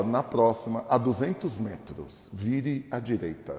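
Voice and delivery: slow, even robotic direction read; default GPS voice. Retold or imitated. Pastor imitating the standard GPS voice giving a turn. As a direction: recite it like a navigation app. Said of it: "aquela vozinha padrão".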